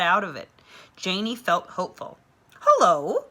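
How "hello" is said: a cheerful call across the yard; called out greeting. A narrator's reading. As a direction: call hello brightly, louder. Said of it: "called the woman".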